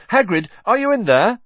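put-on boy shouting to friend behind a door; calling through door.

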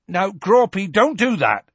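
loud, high scolding shout; Hagrid shouting. A narrator's reading. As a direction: shout a warning up at a misbehaving giant. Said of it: "shouted Hagrid".

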